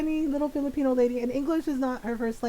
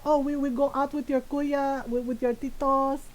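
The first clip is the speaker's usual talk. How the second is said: lightly imitated Filipino mom; chatty mom with a Filipino accent; mom's Filipino accent. Mom telling of an outing, in her Filipino accent. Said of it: "in my mom's voice".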